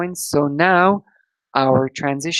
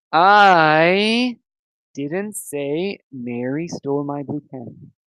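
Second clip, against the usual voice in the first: I stretched long and stressed. Sentence stress exercise, first word underlined: stretched, stressed I. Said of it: "the first word I is underlined. So this means you have to stretch this word".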